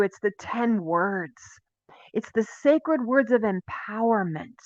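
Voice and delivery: whisper. Real, not acted. Sacred words, hushed emphasis.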